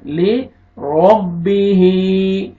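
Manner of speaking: ले रब्बिही with le split off and ba doubled; correct reading. Shown as a demonstration. Teacher correcting a student's reading slowly. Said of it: "लिरब्बिही नहीं पढ़ना".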